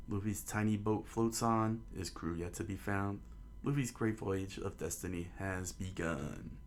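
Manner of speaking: measured, understated storytelling voice; story narration. A narrator's reading. Narrator setting out the townspeople watching at port, measured storytelling. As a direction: read it as a storyteller setting a scene.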